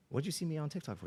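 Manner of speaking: taken-aback father; puzzled dad. Retold or imitated. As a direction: question the kid in high-pitched disbelief. Father questioning son, retold.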